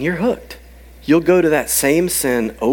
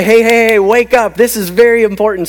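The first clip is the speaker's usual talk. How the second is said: higher, louder attention-grabbing call; urgent alert; 4 semitones higher, 4 dB louder than usual. Acted. Matthew flagging an important line to readers, urgent alert. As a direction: rouse them with quick insistence.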